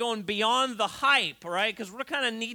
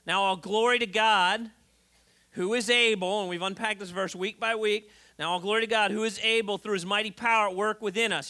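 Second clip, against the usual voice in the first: scripture reading. Acted. Reads scripture aloud.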